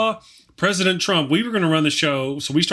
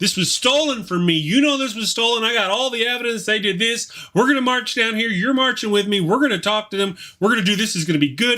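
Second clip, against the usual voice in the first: crowd-rousing harangue with pitch lifted; 6 semitones higher than usual. Retelling a speech to a crowd, inciting them: imitating Trump riling up a crowd. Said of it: "he's just riling these people up".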